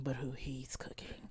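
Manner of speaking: dropped to a whisper. Pretend. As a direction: whisper it ominously. Ominous whisper.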